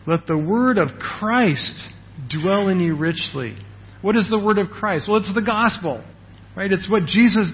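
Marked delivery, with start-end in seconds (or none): 0.1-3.6 scripture reading. Shown as a demonstration. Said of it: "puts it this way".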